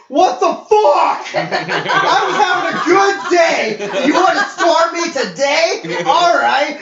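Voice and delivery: loud, high, laughing what the fuck; yelling in shocked disbelief; shocked outburst. Retold or imitated. Reacting to a coworker flashing him, loud shocked yelling.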